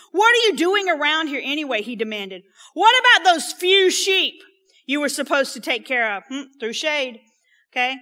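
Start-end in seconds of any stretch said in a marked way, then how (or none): 0.1-1.8 angry brother. Acted. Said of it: "This is Eliab being angry". 2.7-6.2 angry brother. Acted. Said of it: "Eliab being angry".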